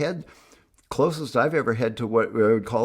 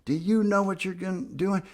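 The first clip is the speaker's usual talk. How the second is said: higher, otherworldly questioning voice; a vision-dream figure probing him; dream figure asking; 7 semitones higher than usual. Retold or imitated. The guy in his vision-quest dream, eerie questioning. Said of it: "with the guy going".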